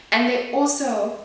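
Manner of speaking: rising heat that spills over. Real, not acted. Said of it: "oh my gosh, I'm getting louder".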